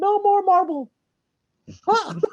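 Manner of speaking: squeaked out high and loud. Playing out a Disney and Deadpool crossover: bad Mickey Mouse impression. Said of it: "That is my worst Mickey Mouse impression ever".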